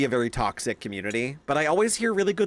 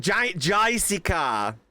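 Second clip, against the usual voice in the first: barista calling orders; 5 semitones higher, much slower than usual. Retold or imitated. Barista mangling a name again.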